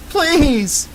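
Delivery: high, desperate plea; begging. A narrator's reading. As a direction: beg in terror. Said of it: "Amber begged".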